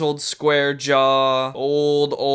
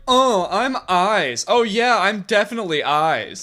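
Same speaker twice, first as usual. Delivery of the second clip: mock-sarcastic, higher and drawn out; 5 semitones higher than usual. Voicing a character's sarcastic eyes, mock sarcasm. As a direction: play it with exaggerated sarcasm. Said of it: "he looked at me with his sarcastic eyes".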